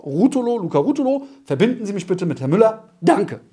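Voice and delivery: brisk, fast, falling command. Shown as a demonstration. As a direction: introduce yourself and order the connection. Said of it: "So steigst du auch bitte ein". (Befehlston beim Einstieg ins Telefonat)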